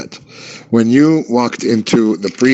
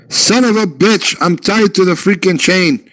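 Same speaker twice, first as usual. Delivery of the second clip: higher, mock-furious dog cursing; angry chained dog; 5 semitones higher than usual. Chained dog threatens the man, mock fury. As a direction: rant like a dog straining at its chain. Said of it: "that's what the dog said".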